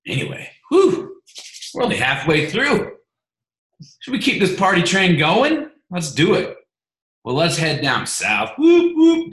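whooping hype-man energy; hyped-up host. Real, not acted. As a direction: pump the room up like a party host. Host hyping the call onward.

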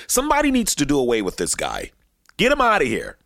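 heated African American accent. Shown as a demonstration. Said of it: "I don't wanna sound too black when I say this".

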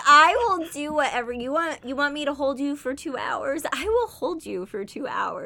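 high, loud, fast gush; excited fan promising anything to Youngie. Retold or imitated. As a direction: fangirl pledging devotion. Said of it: "I'm like".

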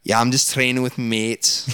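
slow put-on Scouse drawl; drawn-out Scouse footballer impression; Steven Gerrard. Shown as a demonstration. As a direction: imitate a Liverpool footballer, slowly. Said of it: "What about Steven Gerrard?".

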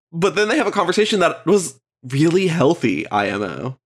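stuffy, tired voice; talking with a blocked nose; congested. Real, not acted. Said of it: "I'm so congested and tired".

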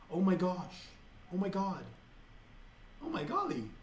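light demo. Shown as a demonstration. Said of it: "any word that comes with a G".

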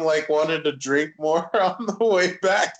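words broken by a laugh. Real, not acted. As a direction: laugh through the line. Laughing while telling Adam story.

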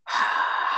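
blowing out a visible breath; cold air breath. Real, not acted. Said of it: "I can see my breath".

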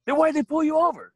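high-pitched challenging question; imitated indignant ex. Ex challenges him after the cops leave, high mock indignation. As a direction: pitch it way up as the baffled girlfriend. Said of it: "She was like".

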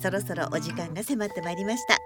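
polished, lilting programme announcement; radio announcer. Real, not acted. Host invites listener letters at show's end, announcer style. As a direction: read it like a radio host's sign-off. Reads radio show outro.

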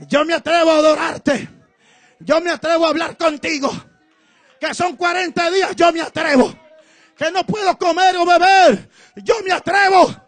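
from calm to loud, swelling vow; building declaration. Acted. Believer answering God's call, building to loud. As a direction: start steady and build to a cry. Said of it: "atreverse a decirle".

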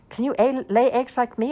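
high-pitched boastful hen; questioning hen. A narrator's reading. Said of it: "asked the hen".

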